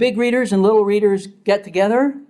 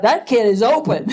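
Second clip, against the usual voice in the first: laughing thought; 5 semitones higher than usual. Retold or imitated. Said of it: "And I thought".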